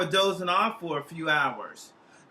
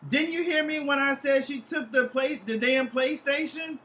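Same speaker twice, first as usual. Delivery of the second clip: exasperated; 6 semitones higher than usual. Acted. Annoyed repeat to friend.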